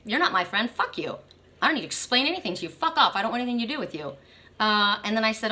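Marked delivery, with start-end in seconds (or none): 0.0-4.2 retold angry rejection, only mildly heated; hurried, dismissive mock outburst. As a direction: imitate someone cutting off a friend. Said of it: "It made him angry".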